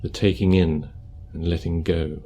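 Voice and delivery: calm, unhurried meditation guidance; guided meditation. Acted. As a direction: guide them gently through posture and breath, leaving space.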